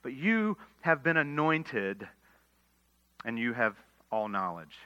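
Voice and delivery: slow, with weight on "you"; slow down and press on "you"; "you" stressed in a slow, emphatic read. Shown as a demonstration. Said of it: "makes this sentence somewhat emphatic".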